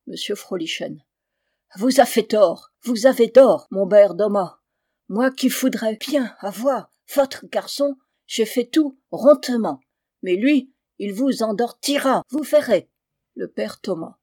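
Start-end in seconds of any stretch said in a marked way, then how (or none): 1.8-12.9 thick German accent, French words softened and devoiced. German recruiter coaxing father Thomas, in a thick German accent. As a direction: play a German gentleman bargaining in heavy German-accented French.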